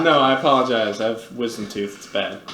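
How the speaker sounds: talking with a numb mouth; words through a numbed mouth. Real, not acted. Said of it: "my entire mouth is numb".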